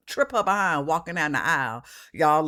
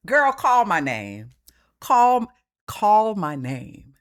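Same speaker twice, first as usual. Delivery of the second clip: daring challenge; 5 semitones higher, 6 dB louder, slower than usual. Acted. Host daring the coworker.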